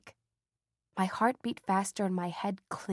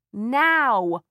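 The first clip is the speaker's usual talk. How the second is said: long, loud, drawn-out call, higher; calling up the stairs; 3 semitones higher, 10 dB louder than usual. Acted. Mother calling Matilda from downstairs, slow loud call. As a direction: call her daughter from below. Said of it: "Mother's voice called up the stairs".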